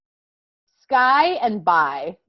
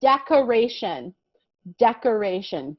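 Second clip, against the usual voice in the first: class repeat. Shown as a demonstration. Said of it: "Let's say it together".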